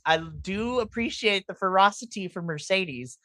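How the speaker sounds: ordinary talk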